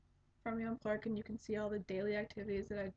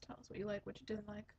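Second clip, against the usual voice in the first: softer, breathy whisper of the same plea; whispered repeat; 2 semitones lower, 9 dB quieter, faster than usual. Shown as a demonstration. Podcaster whispering her plea for listener comments. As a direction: whisper it like a secret aside.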